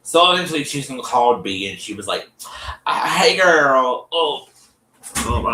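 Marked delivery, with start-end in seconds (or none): 2.8-4.5 Susan's greeting. Retold or imitated. Susan calls B, voiced greeting.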